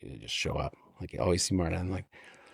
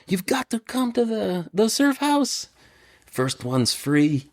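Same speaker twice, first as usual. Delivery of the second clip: much higher, then slow punchline; imitating Martin joking; 10 semitones higher, slower than usual. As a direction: pitch it up and drag out the joke. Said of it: "he's a joke".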